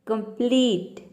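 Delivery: कंप्लीट with a long, stressed second syllable. Shown as a demonstration. Teacher gives an example word, कंप्लीट with stressed long ee. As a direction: hold the ee in कंप्लीट. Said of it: "जोर देके pronounce करना है".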